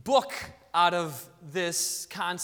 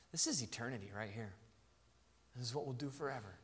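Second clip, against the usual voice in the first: very soft, low, grateful murmur; hushed relief; 7 semitones lower, 10 dB quieter than usual. Acted. Worshipper finally gathered with God's people, hushed relief. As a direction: speak quietly, as if finally able to breathe.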